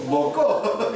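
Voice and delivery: loud, high, curt Gyeongsang question; Gyeongsang dialect. Shown as a demonstration. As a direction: punch it out like a Gyeongsang local. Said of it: "이걸 경상도 말로 하면 뭐라고요". (높고 짧게 내지르는 경상도 사투리)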